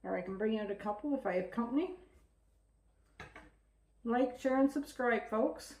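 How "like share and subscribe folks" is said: chewing while talking; mouth full. Real, not acted. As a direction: talk through a mouthful of bread. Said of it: "I'm talking with my mouth full".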